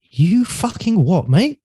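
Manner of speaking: incredulous dad. Retold or imitated. Dad on the phone hearing about personal training, slow incredulous rise. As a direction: drag out the disbelief, voice climbing on mate. Dad hears son quit finance.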